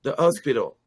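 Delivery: "hospital" said as "ospital"; French dropped H. Retold or imitated. Newcomer repeating to puzzled Americans, "hospital" without the H. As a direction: answer with no H on "hospital". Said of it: "I would say".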